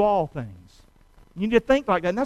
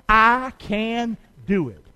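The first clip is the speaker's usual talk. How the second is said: slow, drawn-out I can do it; slower, stronger repeat; much slower than usual. Shown as a demonstration. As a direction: draw the crowd into a firmer repeat. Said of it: "Would you say that again? Come on".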